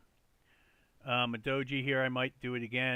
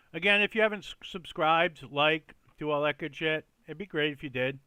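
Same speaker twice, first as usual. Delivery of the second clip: bright, louder subscribe pitch; upbeat plea; 2 semitones higher, 5 dB louder than usual. Real, not acted. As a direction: sell the subscribe with energy.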